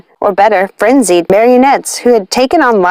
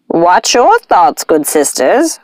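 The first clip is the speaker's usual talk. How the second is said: warning; much slower than usual. Acted. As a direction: caution them slowly and firmly. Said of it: "warned Nanny".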